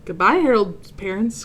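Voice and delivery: high, loud farewell; cheerful cry. Acted. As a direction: call it out happily. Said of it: "cried Santa".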